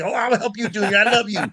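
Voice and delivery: swooning woman. Retold or imitated. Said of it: "they would say".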